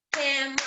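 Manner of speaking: "camera" as cam-ra, two beats; two syllables. Shown as a demonstration. Teacher reviewing syllables all together, "camera" as cam-ra. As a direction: clip out the middle vowel of "camera": cam-ra. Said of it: "It's actually two".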